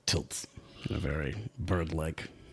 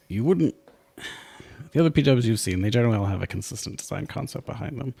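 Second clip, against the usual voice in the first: loud, high and eager; excited; 6 semitones higher, 7 dB louder than usual. Real, not acted. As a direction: describe it with rising excitement. Excited description of robot.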